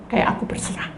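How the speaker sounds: whispered. Shown as a demonstration.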